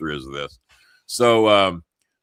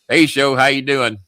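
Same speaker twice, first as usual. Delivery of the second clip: 1 cheery greeting; 6 semitones higher, 4 dB louder than usual. Retold or imitated.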